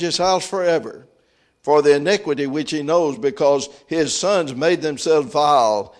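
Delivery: loud, steady declaimed Bible reading; scripture reading. Acted. Preacher reads God's message to Samuel, strongly declaimed. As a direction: proclaim the passage in a strong reading voice.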